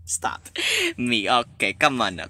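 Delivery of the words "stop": whispered. Real, not acted.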